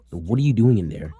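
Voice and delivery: put-on a mother demanding what her kid is doing; mom calling out. Mom calls down to her son in the boiler room, loud and suspicious.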